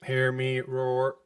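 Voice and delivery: slow, drawn-out robot announcer; booming slow robot boast; Robo Top Deck. Acted. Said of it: "Do Robo Top Deck".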